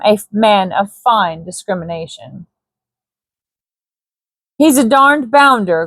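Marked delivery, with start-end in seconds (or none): 4.5-5.9 grumbling. Acted. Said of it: "grumbled the Honorable Morrison".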